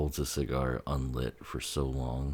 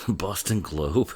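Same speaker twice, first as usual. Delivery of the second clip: laughing repeat; 5 semitones higher, 7 dB louder, slower than usual. Retold or imitated. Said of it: "Shouldn't she sound more Bostonian?".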